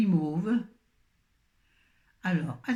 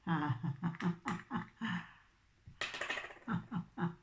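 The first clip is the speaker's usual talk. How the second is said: laughing; 10 dB quieter than usual. Real, not acted. Pain or laugh after the lid.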